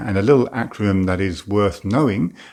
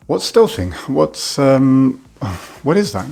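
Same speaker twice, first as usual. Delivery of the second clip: high-pitched mock bewilderment; puzzled viewer; 6 semitones higher, 6 dB louder, slower than usual. Viewer hearing of stealthing for the first time, acted puzzlement. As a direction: ask it higher and louder, baffled, with a hesitant break. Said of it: "So you're probably thinking".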